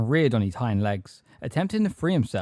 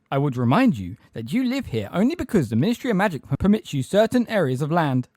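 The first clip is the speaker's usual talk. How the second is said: raised, officious reminder; indignant; 6 semitones higher, 5 dB louder than usual. A narrator's reading. Umbridge reminding centaurs of Ministry permission, indignant. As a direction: remind them who is in charge. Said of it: "with indignation".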